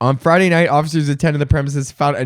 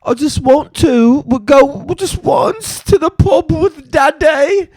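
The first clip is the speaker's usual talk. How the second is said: put-on high, louder whiny little kid voice; whiny child; 10 semitones higher, 4 dB louder than usual. Mocking a child in a video, high pleading kid voice. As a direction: beg like a small child. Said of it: "You see this little video".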